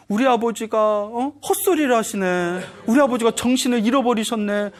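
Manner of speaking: acted wailing without real sobs; tearful children. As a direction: lament lightly, imitating distressed children. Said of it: "막 울고 있는 거예요".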